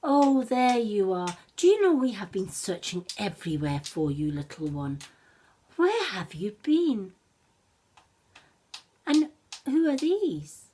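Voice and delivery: a mother who searched everywhere; lightly voiced mother wolf; relieved mother wolf. Mother wolf finds her cub.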